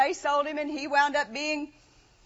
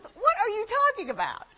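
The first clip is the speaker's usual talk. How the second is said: husband's retort; 6 semitones higher than usual. Retold or imitated. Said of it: "He says".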